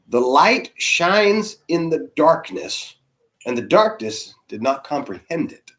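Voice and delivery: slow, weighty reading; scripture reading. Real, not acted. Reading John to the audience, slow and solemn. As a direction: read the verse slowly, letting each phrase land.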